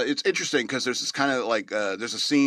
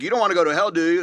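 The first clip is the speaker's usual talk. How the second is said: raised, higher quoted question; character voice; 6 semitones higher, 6 dB louder, faster than usual. Retold or imitated. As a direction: ask it pointedly in character. Quoting character in conversation.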